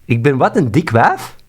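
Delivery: loud, indignant disbelief; shocked at the insult; indignant surprise. Real, not acted. Offended by AI insult.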